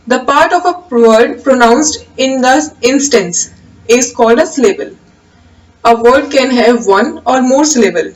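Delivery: slow, measured reading of a definition; slow dictation. Acted. Teacher dictating the definition slowly to the class. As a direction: read it out slowly so students can write.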